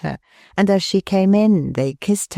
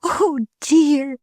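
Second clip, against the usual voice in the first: put-on higher, gentle young wife's voice; Milly, tender; 10 semitones higher than usual. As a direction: lovingly reassure her husband. Milly moved.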